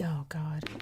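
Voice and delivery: hushed whisper of dread. Real, not acted. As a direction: breathe it out in a whisper. Creeped out in slaughterhouse.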